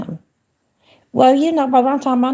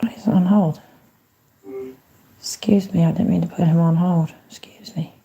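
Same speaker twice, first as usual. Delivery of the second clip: whispering. Real, not acted. Muttering to himself.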